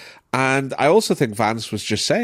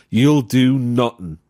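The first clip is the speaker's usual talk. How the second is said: put-on Irish accent, slow and drawn out; mild Irish quote; 4 dB louder, slower than usual. Quoting Conor McGregor to a podcast co-host, mild Irish accent. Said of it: "I'd like to quote the great Irish philosopher, Conor McGregor".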